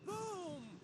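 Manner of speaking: drawn-out spoken boom; mock thunder boom. Narrator acts out thunder, hammy booming. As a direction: play the thunderclap with your voice.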